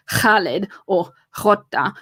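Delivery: "Khaled" and "Jota" with a scraped throat sound at the start; throaty foreign sounds. Shown as a demonstration. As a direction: say "Khaled" and "Jota" with Arabic and Spanish throat consonants. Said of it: "how R's are pronounced".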